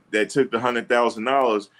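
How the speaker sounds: usual speaking voice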